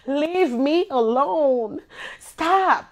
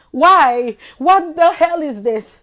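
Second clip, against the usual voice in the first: frustrated loud outburst; 7 dB louder, slower than usual. Real, not acted.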